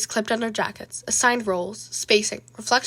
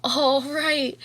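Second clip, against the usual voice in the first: whisper; 4 semitones higher than usual. Real, not acted. Whispered sign-off after the story.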